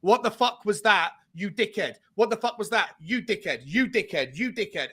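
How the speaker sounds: a hint of a furious coach tearing into his team; mock manager rant. Fan imitating manager bollocking players at half-time, mock angry. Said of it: "in the dressing room that says".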